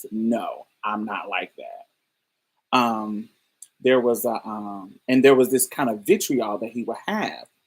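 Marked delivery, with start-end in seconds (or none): 0.1-2.0 put-on, slow, disparaging, dismissive undertone. Showing the undertone some people use about trans people: imitating a dismissive undertone. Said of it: "but their tone says".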